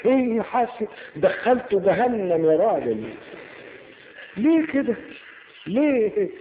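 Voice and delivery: high, loud outraged cry; mock outraged shout. Speaker mimicking prosecutor's fury at the accused, loud mock outrage. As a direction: shout it like a scandalized preacher.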